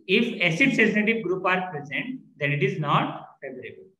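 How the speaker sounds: slow word-by-word dictation; dictating notes. Shown as a demonstration. Teacher dictating a definition to the class, slow and deliberate. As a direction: spell it out slowly so students can write it down.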